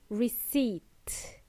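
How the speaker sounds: "Receipt" as ri-SEET, no p; silent P. Shown as a demonstration. Teacher modelling the word for learners, silent P. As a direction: stress the long ee of "Receipt", p left silent. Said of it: "There is a silent P".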